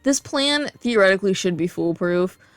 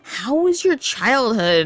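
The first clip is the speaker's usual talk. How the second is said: slow, higher prying question; quoting the boss; 4 semitones higher, slower than usual. Retold or imitated. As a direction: mimic the boss's nosy tone. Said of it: "My boss really did at one point ask me".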